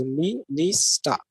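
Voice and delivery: "mi, ni, sta" broken into three separate beats; syllable by syllable. Shown as a demonstration. Teacher splitting the word minister for students, syllable by syllable. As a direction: say "mi, ni, sta" one syllable at a time. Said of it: "in English it has three, uh, syllables".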